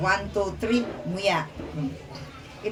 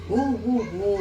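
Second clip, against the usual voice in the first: Santa Claus laugh. Retold or imitated. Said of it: "Anong tawa ni Santa Claus?".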